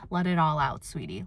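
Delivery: gentle reassuring tone; tender encouragement. Shown as a demonstration. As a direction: comfort a friend who is bawling. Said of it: "I would encourage the person".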